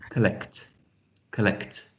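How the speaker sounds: collect repeated slowly apart, with crisp final k and t; collect, each time ending in a released k-t; word ending demonstrated. Shown as a demonstration. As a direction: let both end consonants of collect be heard. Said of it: "You can hear with the end of the word collect".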